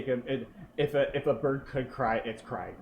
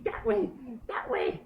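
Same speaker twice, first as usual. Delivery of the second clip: bird voice; 10 semitones higher than usual. Acted. Bird repeats pointing.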